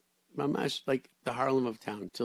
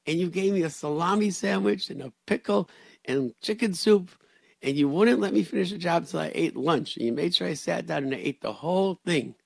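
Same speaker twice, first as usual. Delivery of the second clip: higher, louder, eager retelling; higher and louder, lively grateful worker voice; grateful recollection; 7 semitones higher, 5 dB louder than usual. Retold or imitated. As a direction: pour out the memory gratefully. Grateful worker recalls rabbi's kindness.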